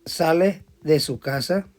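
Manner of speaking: slow, spaced dictation of the problem; teacher dictating the problem slowly to the class. Shown as a demonstration. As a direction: read it out slowly so they can write it down. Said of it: "Vayan viendo, escuchando el problema".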